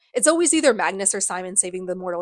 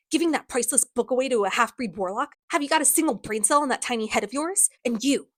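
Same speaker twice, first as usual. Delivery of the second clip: lightly acted scornful rant; mild mock berating; going off; 3 semitones higher than usual. Villain berates a girl over the book, mildly scornful. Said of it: "he starts going off on all of them".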